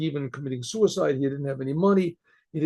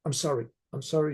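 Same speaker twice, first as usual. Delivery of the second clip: softer, mildly apologetic; retold apology; 2 semitones lower, 6 dB quieter, faster than usual. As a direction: quietly voice someone saying sorry. Screaming lady apologises in retelling.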